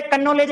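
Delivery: कनॉलेज with a k sounded first, ka-nolej; silent k sounded. Shown as a demonstration. Teacher mocking the silent k in knowledge. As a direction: start कनॉलेज with a spoken k. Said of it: "यही पता नहीं पड़ रहा".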